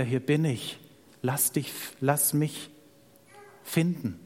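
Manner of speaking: quiet invitation, with pauses between phrases; tender appeal. Acted. God calls to someone who drifted away, tender appeal.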